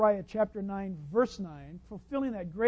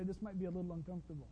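mock doctor; 5 semitones lower, 17 dB quieter, much faster than usual. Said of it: "like a doctor, I might say".

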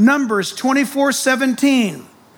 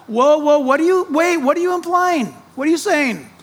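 incredulous stop; 5 semitones higher than usual. Pretend. Preacher playing God catching a complainer, incredulous. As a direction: stop them short, incredulous.

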